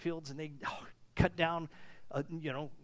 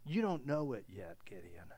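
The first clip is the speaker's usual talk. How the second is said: whispered, much lower and softer; tender whisper; 9 semitones lower, 12 dB quieter than usual. Acted. Angel speaking gently to Gideon, whispered. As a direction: whisper it like a secret promise. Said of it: "he used that irony".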